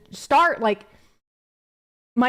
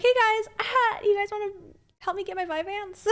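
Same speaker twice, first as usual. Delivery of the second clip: much higher, giggly sweet-talk; cutesy flirty voice; 11 semitones higher than usual. Pretend. Streamer pretends to ask fans for Vyvanse money, cutesy giggle.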